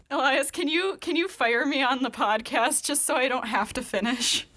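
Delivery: high, whiny, giving-up plea; laughing despair. Real, not acted. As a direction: beg to be fired, laughing.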